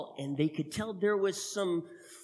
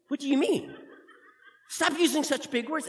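higher, giggling disbelief; laughing; 10 semitones higher, 3 dB louder than usual. Acted. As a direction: laugh at your brother's big words. Brother laughing at big words.

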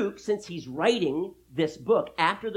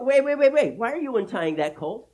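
loud, higher-pitched burst of objection; urgent challenge; 7 semitones higher, 7 dB louder than usual. Acted. Owner stopping strangers untying his colt, urgently. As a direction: stop them in their tracks, indignant owner.

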